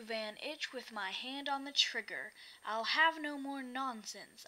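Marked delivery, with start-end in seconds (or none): 2.6-4.4 stern frown. Acted. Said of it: "I said with a frown".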